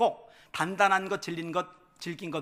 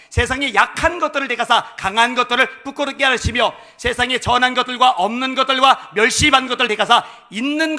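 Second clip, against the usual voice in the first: loud, raised-pitch scripture declamation; forceful scripture preaching; 7 semitones higher, 15 dB louder than usual. Acted. Preacher declaiming scripture to the congregation, loud preaching. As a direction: proclaim the verse, building to a big held ending.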